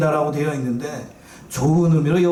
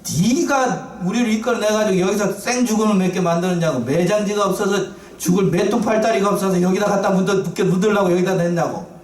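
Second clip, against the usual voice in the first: acted finger-jabbing accusation, slightly raised; 잡아먹을 듯이; 3 semitones higher than usual. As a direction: lay into the leader in mock outrage. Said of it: "삿대질하면서 모세를 금방이라도 잡아먹을 듯이". (삿대질하며 대들듯 따지는 연기)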